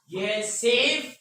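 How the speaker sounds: सेफ said slowly on its own; slow teacher's sounding-out of सेफ; single syllable demo. Shown as a demonstration. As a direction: isolate सेफ as one drawn-out beat. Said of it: "एक syllable हो गया".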